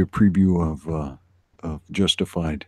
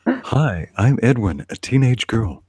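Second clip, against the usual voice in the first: put-on teenage girl voice; 3 semitones higher, 3 dB louder, slower than usual. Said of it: "do your best teenage girl voice".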